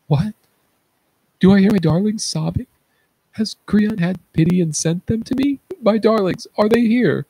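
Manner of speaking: high, loud, fast cry of hope; desperate excitement. Acted. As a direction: call out eagerly for the children. Blind Oedipus hears his daughters.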